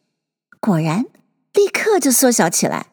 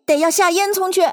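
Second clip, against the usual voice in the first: higher-pitched character order; lightly voiced bossy order; animal ordering someone; 9 semitones higher than usual. A narrator's reading. Animal telling Bill to go down the chimney, ordering.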